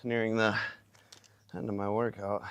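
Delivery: panting words after a hard set; out of breath, talking between gasps. Real, not acted. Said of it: "Gotta catch my breath now".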